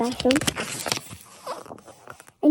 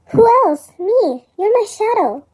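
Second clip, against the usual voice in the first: bossy retort; 5 semitones higher, slower than usual. Acted. Bossy shadow claims ownership.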